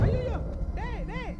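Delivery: sudden high panicked yelp; panicked cry. Acted. Scared man calling after his departing conscience, panicked. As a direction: blurt it out in fright.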